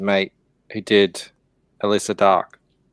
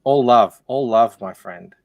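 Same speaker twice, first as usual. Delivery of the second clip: mock Australian accent; 5 semitones lower, 3 dB quieter than usual. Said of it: "destroying our language".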